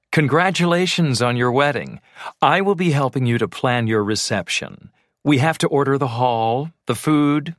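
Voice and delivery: cheery welcome. Acted. Wedding planner greets client.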